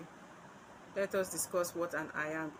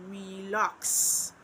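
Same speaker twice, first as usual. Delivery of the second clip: "relax" said slowly, second syllable stretched and stressed; light "re", long stressed "lax" in "relax". Shown as a demonstration. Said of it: "an unstressed syllable followed by a".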